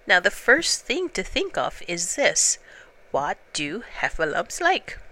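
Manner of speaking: a greedy bear savouring the idea of licking; Pooh voice. Acted.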